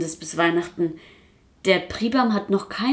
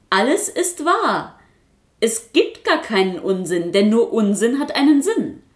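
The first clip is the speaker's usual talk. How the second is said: puppet calling out; 3 semitones higher, 3 dB louder than usual. Acted. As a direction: call it out like a stubborn little know-it-all. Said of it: "rief der Quasselkasper".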